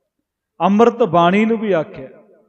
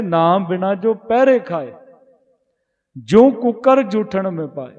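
slow scripture recitation; slower than usual. Acted. Preacher reciting gurbani verse to the congregation, slow and reverent. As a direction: chant the verse slowly, each phrase drawn out.

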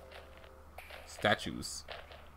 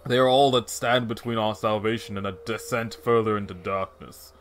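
serious voice; 3 semitones lower than usual. Acted. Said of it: "like, a serious".

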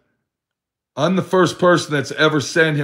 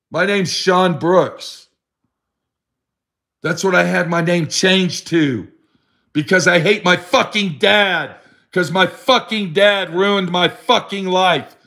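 lightly voiced bitter Sean; 4 semitones higher than usual. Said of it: "That's the attitude that Sean Brooks had".

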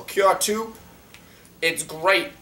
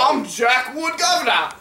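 higher, cheeky mock-British introduction; put-on British accent; 4 semitones higher than usual. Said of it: "his freaking British accent".

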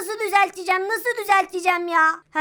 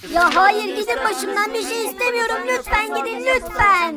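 exasperated pleading. Acted. Begs followers to leave him alone.

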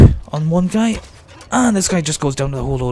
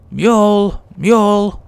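loud, higher-pitched call; 6 semitones higher, 5 dB louder, slower than usual. Pretend. Player shouting for missing companion Mule, calling out. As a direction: call out for someone out of sight.

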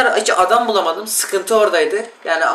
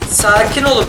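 urgent, raised plea for calm; 4 semitones higher than usual. Real, not acted. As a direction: push it out urgently, pleading. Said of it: "repeats calming plea more urgently".

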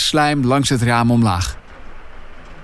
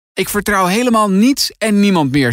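higher-pitched, uneasy declaration; nervous; 6 semitones higher than usual. A narrator's reading. Finn reacts to grandpa's creepy warning, nervous and higher. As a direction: say it with mounting unease. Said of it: "zegt Finn nerveus".

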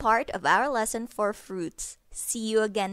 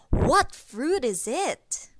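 mock surprise; 4 semitones higher, 5 dB louder, slower than usual. Guessing game for children.

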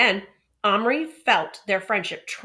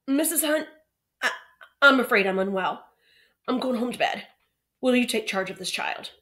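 hoarse croak; 5 semitones higher, 4 dB louder than usual. Acted. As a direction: croak out the words. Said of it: "he croaked".

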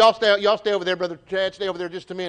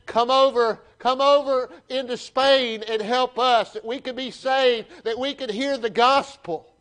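pleading cry; 4 semitones higher than usual. Acted. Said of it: "they're crying out for".

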